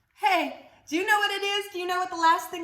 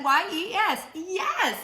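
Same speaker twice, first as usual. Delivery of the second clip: mock scream; 5 semitones higher, 4 dB louder, slower than usual. Shown as a demonstration. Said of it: "so we scream it".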